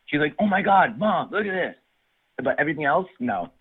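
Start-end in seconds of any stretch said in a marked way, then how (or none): 0.4-1.8 imitating a thrilled child, high and bright; lightly voiced excited daughter; excited kid. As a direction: gush like a kid who loves her gift. Daughter thrilled by truck gift.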